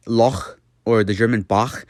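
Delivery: "loch" and "Bach" ending in a throaty rasp. Shown as a demonstration. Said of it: "it's very throaty".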